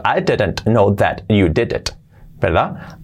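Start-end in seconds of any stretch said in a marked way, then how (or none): 0.0-2.0 slow, over-correct t's and d's; word by word. Shown as a demonstration. Teacher shows what nadie dice, word by word. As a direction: pronounce each word separately, lower pitch. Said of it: "Nadie dice eso".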